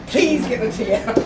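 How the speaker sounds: hammed-up plea as if in a crisis; mock plea. Storyteller pretends to beg family in a disaster, mock desperate plea. Household disaster, craving tea.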